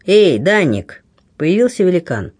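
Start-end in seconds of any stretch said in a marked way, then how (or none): 0.1-1.0 raised voice, calling across. Acted. Drake calls his big friend Danik: a raised shout. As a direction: call the giant over, a bit louder. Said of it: "повысив голос, крикнул".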